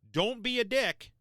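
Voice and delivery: sudden high, loud warning; blunt scolding. Real, not acted. Radio instructor warns careless hotspot users, loud and blunt. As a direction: bark it straight at the users.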